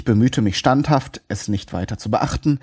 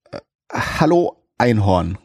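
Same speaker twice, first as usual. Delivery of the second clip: lahm. Acted. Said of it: "erwiderte ich vielleicht etwas lahm".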